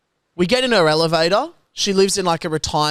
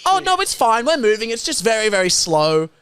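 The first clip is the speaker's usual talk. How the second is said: grandma reassuring; 5 semitones higher than usual. Retold or imitated. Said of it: "She goes".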